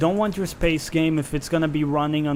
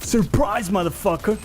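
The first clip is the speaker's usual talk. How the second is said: gleeful yell; 5 semitones higher than usual. Real, not acted. Springing an ambush in game.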